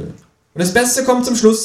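high, slow teasing kangaroo voice. Acted. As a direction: draw out the reveal in a high voice. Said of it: "sagt das Känguru".

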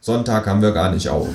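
measured comic verse recital; declaiming a poem. A narrator's reading. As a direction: recite the doggerel deliberately, line by line. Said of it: "Ich deklamiere".

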